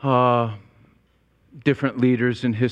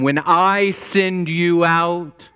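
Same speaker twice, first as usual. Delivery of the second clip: commanding king; 6 semitones higher than usual. Retold or imitated. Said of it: "the king is saying".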